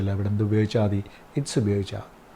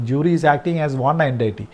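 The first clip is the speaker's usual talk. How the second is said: slow dictation; 2 semitones higher, much slower than usual. Shown as a demonstration. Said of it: "rule repeated slowly".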